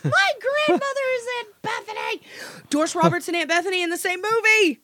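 high, laughing disbelief. Real, not acted. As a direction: blurt it out through laughter. Laughing about Aunt Bethany grandma.

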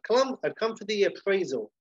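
high-pitched visitor announcing himself; antique dealer. Acted. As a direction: announce your business in character. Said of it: "So Clive Swift, the antique dealer".

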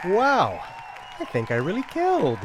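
hammy comedian. Pretend. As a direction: play to the crowd. Hammy stand-up sign-off.

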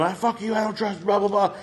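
high mock rant, no real volume; mock screaming. Guest retells a woman screaming at another woman, mock screaming. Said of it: "just screaming at this woman".

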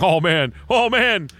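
loud relieved moan, rising; relieved groaning. Retold or imitated. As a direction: groan it out like peeing. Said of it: "it's like".

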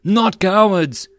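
loud, high, slow chant of the whole squad; group rallying cry. Acted. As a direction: roar it back together. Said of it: "the soldiers rallied the cry".

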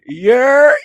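high, loud, drawn-out mock holler; hollered street call. Imitating the Turtles' New York call, hollered.

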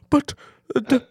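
hammed-up, badly faked Irish accent. Farmers protesting losing their farm, bad mock Irish accent. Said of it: "That was a bad Irish accent".

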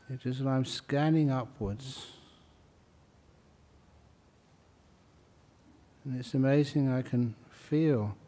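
soft, unhurried meditation voice; guided meditation. Real, not acted. Teacher guiding meditators up through the body, soft meditation voice. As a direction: ease gently through a body scan, pausing between phrases.

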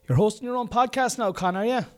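high-pitched mocking heckler; squeaky inner critic butting in; heckling alter ego. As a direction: needle the host in a high put-on voice. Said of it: "the same person".

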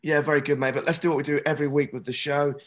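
hoarse, worn-out voice from shouting. Real, not acted. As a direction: speak with a voice lost from cheering. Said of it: "I've lost my voice from cheering and shouting".

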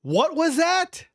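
high, drawn-out incredulous question; can't believe what you just heard; baffled disbelief. Real, not acted. Stunned reaction to played clip.

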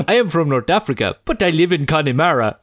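a hint of accented street seller; North African hawker. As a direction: lightly voice the hawker proudly explaining himself. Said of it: "He says".

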